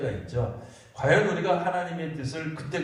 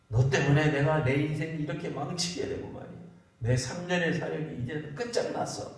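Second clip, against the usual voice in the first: mock resentful complaint. Preacher imagining Jesus blaming his disciples, mock resentful complaint. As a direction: play at blaming everyone, rising at the end. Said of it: "막 원망이 나오고".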